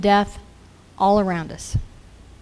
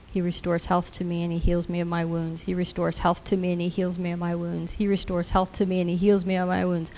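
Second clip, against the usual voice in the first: soft repeated muttering under the breath; quietly muttering a scripture to himself in the car; muttered to myself; 6 dB quieter than usual. Retold or imitated. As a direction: murmur the verse over and over to yourself. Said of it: "muttered to myself".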